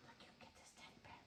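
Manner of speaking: quick whisper to a puppy; hushed, hurried whisper; coaxing whisper. Real, not acted. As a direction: whisper it fast, luring a pet.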